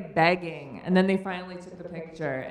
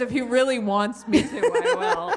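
grudging reply dissolving in laughter; laughing mock grudging answer; 3 semitones higher than usual. Husband grudgingly agreeing to read, laughing. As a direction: pitch jumps up into a laugh on I will.

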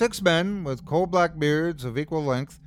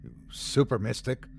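hissed; 5 dB quieter than usual. A narrator's reading. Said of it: "hissed another with a fiendish smile".

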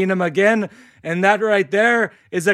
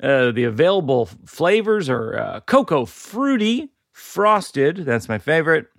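sponsor read with lilting list intonation; podcast ad read. Real, not acted. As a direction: read the ad copy like a podcast host, lifting each item. Host reads sponsor ad.

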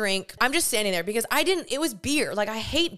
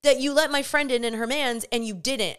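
higher-pitched annoyed confrontation; pissed off; 3 semitones higher than usual. Retold or imitated. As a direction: retell an indignant demand. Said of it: "pissed at this point".

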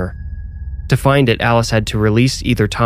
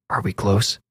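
whisper; 6 dB quieter than usual. A narrator's reading. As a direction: whisper it close to her ear. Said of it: "He whispered".

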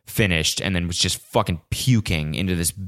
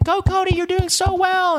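mock cheering fan. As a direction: cheer him on in a squeaky fan voice. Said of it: "they'd be like".

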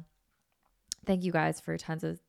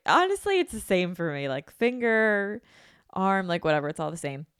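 dramatic protest; 4 dB louder than usual. Retold or imitated. Dramatic self-quote to nurse.

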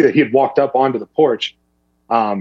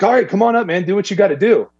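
rancher voice; 8 semitones higher than usual. Retold or imitated. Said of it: "he's like".

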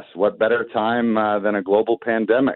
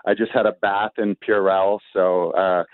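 slightly muffled behind a mask; through a face mask. Real, not acted. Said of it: "I am wearing a mask right now".

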